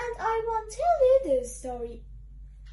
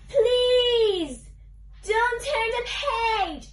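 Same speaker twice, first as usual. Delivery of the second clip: loud drawn-out PLEASE, then slowing; desperate plea; 3 dB louder, much slower than usual. Acted. Book character begging the reader to stop, desperate. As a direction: beg loudly, stretching the words.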